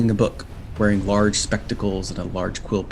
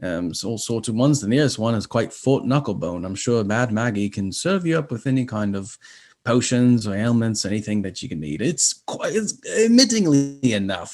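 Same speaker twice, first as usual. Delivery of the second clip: flustered imp professor; 2 semitones higher than usual. Acted. Imp professor introducing himself to travellers, flustered and fussy. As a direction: trip over the words like a nervous bureaucrat. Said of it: "devilish imp".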